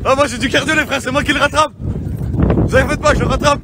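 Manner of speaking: panting while running after him; breathless from the chase; out of breath. Real, not acted. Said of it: "J'ai plus de souffle".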